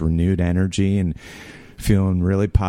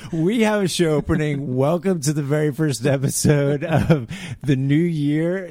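booming announcer, second try; 8 semitones higher than usual. Pretend. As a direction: open the show like a radio host. Mock announcer opens the show.

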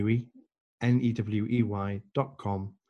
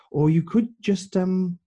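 higher, tentative suggestion that hangs; pondering; 8 semitones higher, 4 dB louder, slower than usual. Retold or imitated. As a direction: float the idea as if still thinking. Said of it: "he pondered for a moment".

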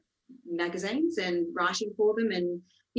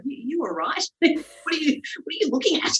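raised pitch, halting mock suspicion; wary challenge; 8 semitones higher than usual. Wary mother questioning a nosy stranger at home, mock challenge. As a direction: challenge him, half laughing as you retell it.

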